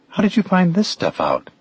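high-pitched, insistent question; astonished demand from a lightly voiced woman; demanding to know. A narrator's reading. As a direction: demand an answer, pitch jumping up. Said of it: "she demanded to know".

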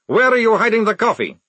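loud, high-pitched angry demand; snarled demand. A narrator's reading. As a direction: snarl it loudly, desperate for an answer. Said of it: "snarled Maledict".

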